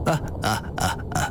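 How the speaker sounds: short, low acted chuckle; narrated laugh. A narrator's reading. Di Renjie answering Sun with a sigh and a laugh, chuckling. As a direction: laugh in separate little huffs. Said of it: "笑道".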